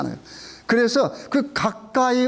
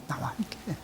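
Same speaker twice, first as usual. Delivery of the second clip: whispered echo; 15 dB quieter than usual. Real, not acted. Repeats phrase, dropping away.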